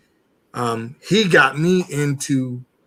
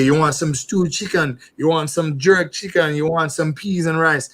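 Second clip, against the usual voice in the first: Jamaican accent; 2 semitones higher than usual. Shown as a demonstration. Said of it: "hear me talk Jamaican and say".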